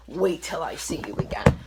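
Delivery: whispered menace on "Wait till I see you again"; threatening whisper. Retold or imitated. Texting the girl who took her boyfriend, a whispered threat. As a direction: hiss the threat under your breath. Threatening text read aloud.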